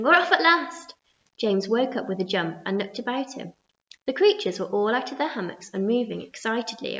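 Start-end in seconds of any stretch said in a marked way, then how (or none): 0.0-0.9 high, loud cry of joy; excited shout. A narrator's reading. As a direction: whoop it out. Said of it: "someone was shouting".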